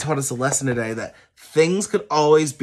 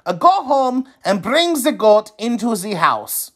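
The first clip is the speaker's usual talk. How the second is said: higher calm instruction; wise man instructing; 10 semitones higher than usual. A narrator's reading. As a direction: tell him plainly like a sage. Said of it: "the wise man said".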